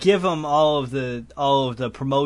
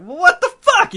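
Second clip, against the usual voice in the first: high, loud mock scream; retold scream; 9 dB louder, slower than usual. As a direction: scream it as the outraged friend. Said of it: "you hear him just scream".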